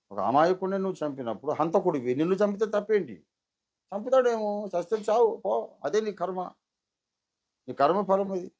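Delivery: loud, high scolding of a murderer; angry rebuke. Pretend. Preacher voicing God scolding Cain, loud and angry. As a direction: tell the killer off to his face, furious. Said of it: "అని అనాలి".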